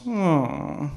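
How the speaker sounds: moan. Acted. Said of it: "it just moans".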